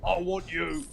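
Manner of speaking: slow, put-on thick British accent. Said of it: "his thick British accent now".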